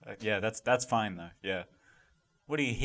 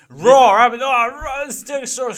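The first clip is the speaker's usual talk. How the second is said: loud roaring dinosaur fury, higher; dinosaur rage mode; 9 semitones higher, 14 dB louder than usual. Acted. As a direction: let the dinosaur snap into rage and roar. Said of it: "stegosaurus going rage mode".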